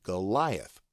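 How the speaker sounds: Goliath said guh-LIE-uth, first vowel reduced; guide pronunciation. Shown as a demonstration. Teacher reading it from the guide, Goliath as guh-LIE-uth. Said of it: "G-U-H-L-Y-E-U-T-H".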